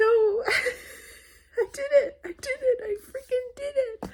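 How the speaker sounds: very high voice, crying through the words. An author, late at night before their book comes out, starts to cry: starting to cry. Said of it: "I'm starting to cry".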